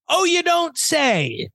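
sarcastic. Real, not acted. Sarcastic reply to headline.

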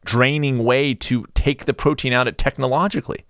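usual speaking voice

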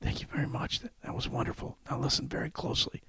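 slow, breathy near-whisper; very slowly. Retold or imitated. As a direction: drag each word out weakly. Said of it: "and says very slowly".

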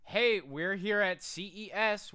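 convention promoter. Acted. Cohost imitates a tech convention booth promo, convention promoter. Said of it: "sometimes it'll just be like".

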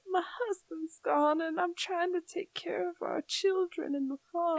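a hint of a Southern widow voice; Southern accent. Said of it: "Where's this accent coming from?".

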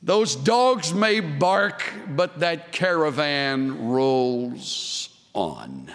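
very slow, each word laid down; slow and savoured. Shown as a demonstration. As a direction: let the proverb roll out slowly. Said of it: "Wouldn't you like that?".

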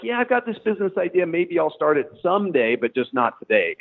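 high, easygoing put-off voice; lazy dreamer voice. Retold or imitated. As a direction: play the comfy employee who delays. Imitating a complacent employee.

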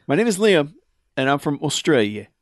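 hammy, badly faked Australian accent. Reader obliging co-host's demand for the proper accent, mock Australian. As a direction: put on a rough Australian accent. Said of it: "read it in the proper accent".

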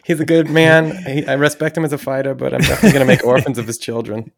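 Mike Tyson. Acted. Quoting a favorite cartoon joke to friends, Mike Tyson impression. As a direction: put on a famous boxer's high voice. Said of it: "the Mike Tyson".

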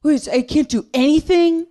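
high, fast indignant man's whine; mock a man outraged he can't do anything; whiny guy. Comic mocking a complaining man, high whine. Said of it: "I heard this guy saying".

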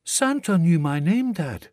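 put-on a boy telling his dad in awe; amazed small boy. A narrator's reading. Boy marvelling to father.

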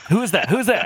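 loud, high, amused call; calling out, laughing. Retold or imitated. The boss calling out again, loud and amused. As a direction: shout the question with a laugh. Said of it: "And he's like".

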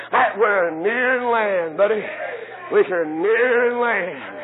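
slow, deliberate words; slow emphasis. Real, not acted. Preacher to his church, slowly insisting. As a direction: set each word down slowly.

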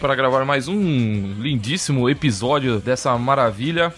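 excited host intro. Acted. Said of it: "Fala mais animado".

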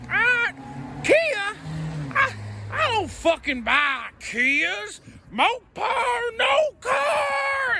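loud, high redneck drawl yelling about Kias; hammed-up Southern redneck ranting down the phone; redneck accent. Prank caller hams up a redneck accent at a telemarketer. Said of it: "I just put on the redneck accent".

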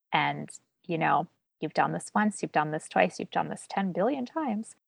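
host voicing a guest's self-talk, wry and knowing; self-talk to her brain. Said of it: "say to yourself".

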